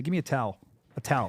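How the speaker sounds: "towel" squashed into one syllable, "tal". Shown as a demonstration. Host admits he mispronounces it, "towel" as one-syllable "tal". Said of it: "I can't say towel the correct way".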